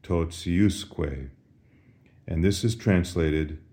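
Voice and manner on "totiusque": totiusque with TI softened to "tsi". Shown as a demonstration. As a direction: say totiusque slowly as "tot-si-US-kwe". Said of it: "you simply say".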